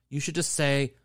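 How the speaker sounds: ordinary talk, nothing marked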